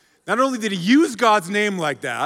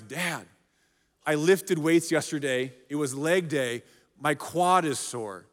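son's voice; 4 semitones lower, 5 dB quieter than usual. Retold or imitated. Son explains sore quad.

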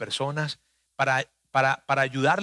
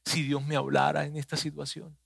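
soft wishful murmur, fading away; imagined yearning, softly voiced; wistful longing; 5 dB quieter than usual. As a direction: plead quietly, trailing into near silence. Voicing someone longing for God.

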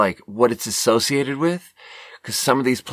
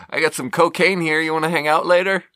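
mock sleazy pickup line; 7 semitones higher than usual. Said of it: "small talk with a stripper".

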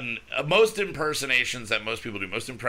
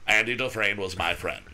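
Morgan Freeman impression; 3 semitones lower than usual. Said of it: "And I just go".

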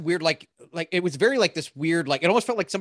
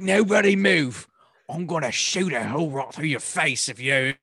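mock Australian villain. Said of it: "either Australian or, like, British accent".

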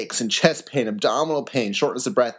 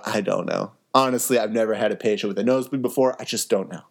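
sheepish and low, trailing off ashamed; ashamed admission; 3 semitones lower, faster than usual. Retold or imitated. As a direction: admit defeat, head hanging. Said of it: "shake my head in shame and go".

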